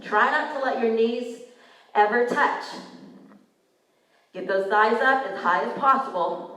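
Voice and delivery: breathing hard between cues; winded, heavy breaths into mic. Real, not acted. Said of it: "Sorry, I'm breathing heavy into the mic".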